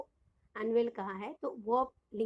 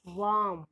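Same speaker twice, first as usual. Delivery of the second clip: वार्म said in one go; वार्म in one beat, no break; one unbroken syllable; slower than usual. Shown as a demonstration. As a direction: say वार्म as one single sound. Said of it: "एक ही बार में बोल रहे हैं".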